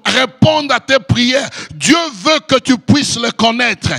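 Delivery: full-force preaching. Acted. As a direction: preach it hard to the congregation, rising to a climax.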